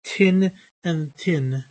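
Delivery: "tin and tin": both words start with an aspirated T; Irish tin and tin. Shown as a demonstration. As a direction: say "thin" as "tin", Irish style. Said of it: "Southern Irish English would say tin and tin".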